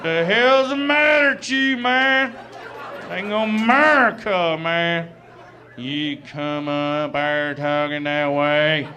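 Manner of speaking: high, loud, slow ranting hillbilly yell; furious redneck fan. Retold or imitated. Angry NASCAR fan yelling at the comic, loud slow rant. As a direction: rant at the stage like an outraged fan. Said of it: "stood up and went nuts".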